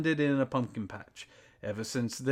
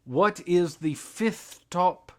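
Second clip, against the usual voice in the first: announcer voice; 3 semitones higher, 4 dB louder, slower than usual. Acted. Host voice announcing the countdown.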